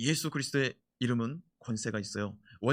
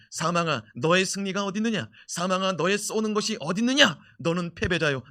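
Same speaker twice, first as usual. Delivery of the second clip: defiant taunt; 4 semitones higher, 5 dB louder than usual. Retold or imitated. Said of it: "사도 바울이 뭐라고 말합니까".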